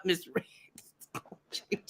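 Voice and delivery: ordinary delivery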